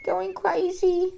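very high, loud, bewildered cry; distraught pleading. Acted. Child to mother who has gone crazy, distraught high pleading. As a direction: plead for answers in a high, strained voice. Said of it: "and I'm going".

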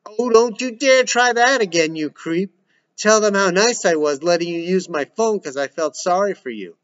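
furious. Acted. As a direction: tear into him. Daughter furious at brother.

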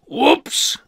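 high, loud sing-song whoops; surprised whoops. Acted. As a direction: yelp it in mild surprise. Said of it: "said Mister Strong".

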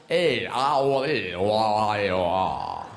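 "A, ah, oh, E" slid together, slow and sinking low; exaggerated vowels. Shown as a demonstration. Showing accents are all vowels, "A, ah, oh" stretched and run together. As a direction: drawl "oh, I, oh, ah" as one long gliding string of vowels. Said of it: "they're all changes in vowels".

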